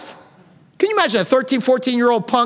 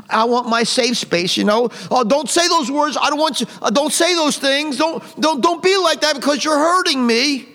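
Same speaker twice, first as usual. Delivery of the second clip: higher, whiny mocking voice of an easily offended person; mock whiny snowflake; 4 semitones higher than usual. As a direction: parody a thin-skinned complainer, pleading. Mocking a thin-skinned person.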